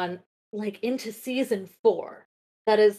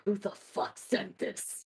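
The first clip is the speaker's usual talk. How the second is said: hushed, breathy who-sent-this; a shocked whisper; whispered disbelief; 10 dB quieter, slower than usual. Retold or imitated. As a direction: whisper it like you're stunned. Reacting to a shocking anon message.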